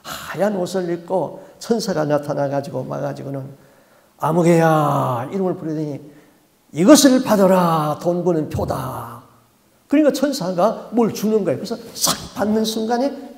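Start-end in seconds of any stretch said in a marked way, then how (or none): 4.2-5.3 slow, loud summons of a name; a drawn-out otherworldly call; angel calling. Retold or imitated. False angel calls her name. 6.7-9.2 a solemn false-angel decree; angel's command. Retold or imitated. False angel hands over token.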